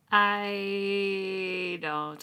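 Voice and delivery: breathy, slow, lost whisper; whispered confusion. Retold or imitated. Reader whispering her confusion over the deities. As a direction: whisper it like your head is spinning. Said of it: "I was like".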